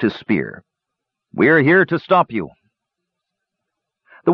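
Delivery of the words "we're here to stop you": glum, high-pitched threat; half-hearted warning from an unwilling guard; depressed-sounding. A narrator's reading. Warrior raises his spear at the visitors, sounding depressed. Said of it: "his voice still depressed sounding".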